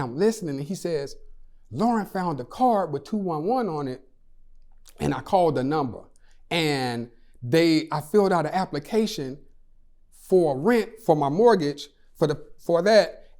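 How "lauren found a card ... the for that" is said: retelling a friend's news with mild excitement; a touch of excited urgency, lightly acted; all excited. Friend reports calling two one one for help, mildly excited. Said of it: "he was all excited".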